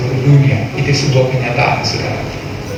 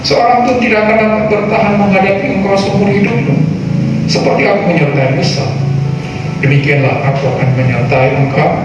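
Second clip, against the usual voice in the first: solemn Bible reading over music; scripture reading; 3 semitones higher than usual. Acted. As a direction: read scripture with weight. Reads scripture aloud. (pembacaan Alkitab yang khidmat)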